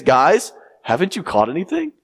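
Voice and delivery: doubtful call, sure the answer is no; expecting no answer. Shown as a demonstration. Preacher voicing the stranger on the shore, doubtful. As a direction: ask as if you already expect a no. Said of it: "there's a certain tone".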